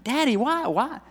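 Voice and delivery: put-on high whining child, why drawn out; mock child whining; whiny kid. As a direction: whine like a kid who hates chores. Kids whining at cleanup.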